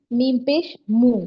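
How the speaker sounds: "میم پیش مو" said slowly, drawing out "مو" as a long o; demonstrating the u sound. Shown as a demonstration. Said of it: "واو کا sound ملانا ہے". ("مو" کو آہستہ کھینچ کر ادا کریں)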